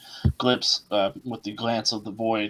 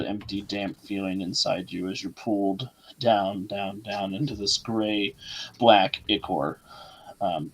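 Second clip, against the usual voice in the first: slow, ominous scene setting; game master narration. A narrator's reading. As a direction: paint the underworld slowly. GM narrates the descent.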